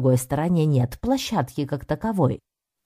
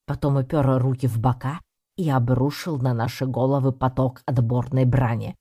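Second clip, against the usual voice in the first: usual speaking voice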